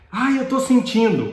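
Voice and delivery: imitating a patient crying out; retold cry of pain. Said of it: "A paciente gritou e falou assim".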